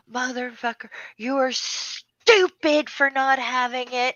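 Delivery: retold insults. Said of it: "he called me it".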